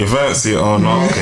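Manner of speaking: amused coach impression, half laughing; Gav. Friend teases as the coach challenging a young boxer, laughing impression. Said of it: "can you do that in Gav's voice, please?".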